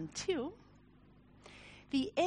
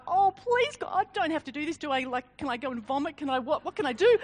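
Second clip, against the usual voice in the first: panicked inner plea; 3 semitones higher, 6 dB louder, faster than usual. Retold or imitated. Speaker begging God before her talk, fast and panicked. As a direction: gabble it out in rising panic. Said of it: "There was like".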